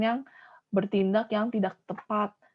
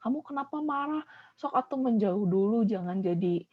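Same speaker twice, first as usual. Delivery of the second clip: calming. Shown as a demonstration. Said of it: "malah ditenangin".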